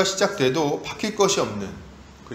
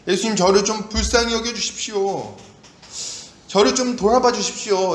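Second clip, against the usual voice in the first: higher, imploring prayer; earnest pleading; 5 semitones higher, 3 dB louder than usual. Acted. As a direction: plead to be noticed and pitied. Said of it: "이렇게 좀 간절히 찾는". (간절히 애원하는 목소리)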